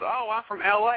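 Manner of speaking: high-pitched mock feminine reply; imitated woman. Woman tells him where she's from, imitated high voice.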